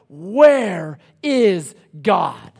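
long drawn-out, loud cry; anguished yell. Retold or imitated. Prisoner crying out at the gallows, anguished yell. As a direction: cry it out slowly, every word stretched. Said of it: "yells out".

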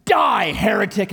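sudden shout, hammed-up zealot; mock furious yell. Rescuer condemns the man on the rope, mock furious yell. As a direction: snap from friendly to hostile, loudly.

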